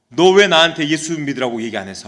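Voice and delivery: mildly angry acted confrontation; retold anger. Convert confronts a friend who never evangelized, mock angry. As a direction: demand an answer in a retold quarrel. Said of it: "막 화를 내면서".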